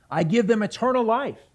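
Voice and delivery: loud, high declaration, spoken as Jesus; bold proclamation. Retold or imitated. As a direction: announce it boldly to the crowd. Voicing Jesus's claim to God.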